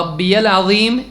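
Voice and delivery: "ربی العظیم" with audible rabbi-yal; correct RABBIYAL. Shown as a demonstration. Teacher explains "my Lord", "ربی العظیم" said rabbi-yal. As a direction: keep the "ya" clear in "ربی العظیم". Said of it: "ربی کا مطلب ہوتا ہے میرا رب".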